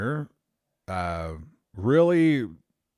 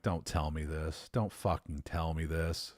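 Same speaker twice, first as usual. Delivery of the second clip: mock dread; 3 semitones lower, 6 dB quieter than usual. Hears there's another Aussie.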